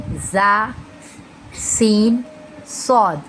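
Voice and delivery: "जा, सीन, सौद" with a whistle-like s/z; drawn-out sibilant letters, "सौद" rounded; whistling sibilants. Shown as a demonstration. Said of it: "सीटी की तरह आवाज़ निकलती है".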